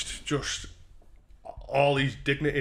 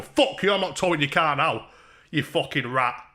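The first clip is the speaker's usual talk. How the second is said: mock angry; 2 semitones higher, 5 dB louder than usual. Streamer jokingly telling off his friend, mock angry. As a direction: playfully snap at a mate.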